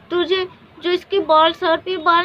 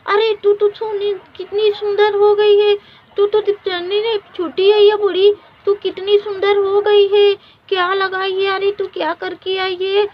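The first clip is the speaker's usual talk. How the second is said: amazed; 3 semitones higher, 6 dB louder than usual. Acted. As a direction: gasp at her new beauty. Amazed at sister's beauty.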